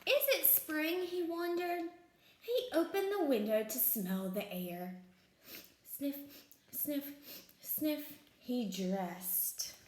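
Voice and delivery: lively, deliberate picture-book narration; children's storytime voice; story read-aloud. A narrator's reading. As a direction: read it to small children with clear pauses.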